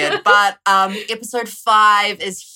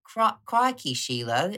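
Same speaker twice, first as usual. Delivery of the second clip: mock Australian accent; 4 dB quieter than usual.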